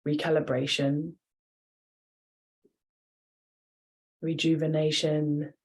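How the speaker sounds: calm yoga nidra guiding voice with long pauses; guided meditation. Real, not acted. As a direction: ease them toward rest, pausing between phrases. Leads yoga nidra relaxation.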